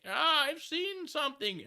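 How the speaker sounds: very high, slow, loud mock panic; hammed-up alarmed witness; mock frantic caller. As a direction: ham up a frantic citizen calling in. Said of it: "letters from people going".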